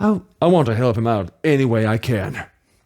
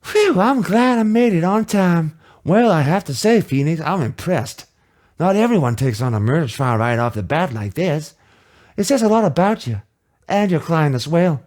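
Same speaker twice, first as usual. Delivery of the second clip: a hint of a chipper boss, higher; lightly voiced mentor; 5 semitones higher, 3 dB louder than usual. Mentor greeting rookie lawyer in lobby, lightly chipper. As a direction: greet him like a cheery senior lawyer.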